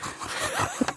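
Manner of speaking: woodcock impression. Shown as a demonstration. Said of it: "That's my woodcock".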